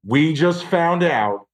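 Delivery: slow, drawn-out big reveal; dramatic slow announcement. Acted. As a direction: build suspense word by word.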